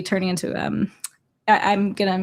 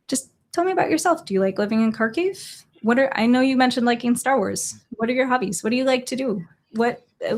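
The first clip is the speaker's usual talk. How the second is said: put-on higher, quicker, friendly tone for a child; bright gentle questions; 3 semitones higher than usual. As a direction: coax a shy kid to open up. Gently questioning a ten-year-old.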